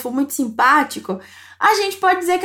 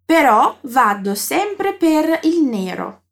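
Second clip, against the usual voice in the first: slow model sentence; much slower than usual. Shown as a demonstration. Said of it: "Dai, ripetiamo insieme".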